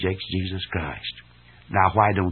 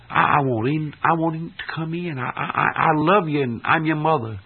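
pleading mother; 7 semitones higher than usual. Acted. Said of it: "somebody outside says".

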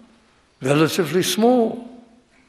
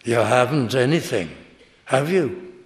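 knowing; 3 semitones lower than usual. Shown as a demonstration. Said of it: "as a knowing person".

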